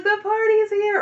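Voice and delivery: high, loud party shout; party cheer. Retold or imitated. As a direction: announce yourself to the whole yard. Caleb arrives shouting at party.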